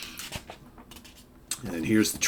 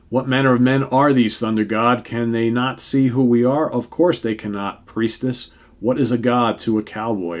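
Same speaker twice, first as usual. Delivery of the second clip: lofty, louder hero dialogue; voicing comic heroes; 3 semitones higher, 5 dB louder than usual. Heroes puzzled by cowboys, lightly hammed. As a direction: play the gods lightly archaic. Reads Moondragon and Thor lines.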